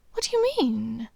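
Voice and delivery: breathy whisper; whispered question. A narrator's reading. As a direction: ask it under your breath. Intimate question in story.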